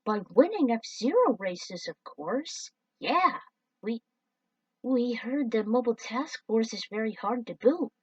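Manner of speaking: lightly voiced hopeful alien; eager alien pitch. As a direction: sell the idea eagerly.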